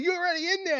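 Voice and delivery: high-pitched mock exclamation; retold movie retort. Friend retelling the kick into the hole, high-pitched retort. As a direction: send the voice way up for the quoted line. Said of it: "And he's like".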